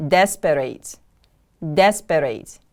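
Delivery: "Desperate" with DES stressed, falling away; careful teacher's "Desperate", weight on the first syllable. Shown as a demonstration. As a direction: model "Desperate" as DES-per-ate. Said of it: "The stress is on the first syllable".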